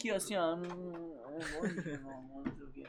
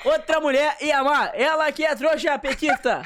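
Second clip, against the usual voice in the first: fired-up rant; 5 semitones higher, 5 dB louder than usual. Real, not acted. Boastful playful rant about himself.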